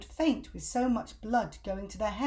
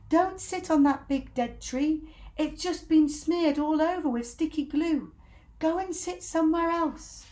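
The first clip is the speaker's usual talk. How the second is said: high, loud frantic calling; urgent warning; 8 semitones higher, 5 dB louder than usual. Acted. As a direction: shout a desperate warning to the birds. Monkeys warning birds.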